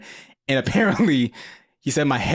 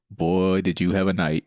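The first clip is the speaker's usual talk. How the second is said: dry dad voice; 5 semitones lower than usual. Retold or imitated. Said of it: "he's just like".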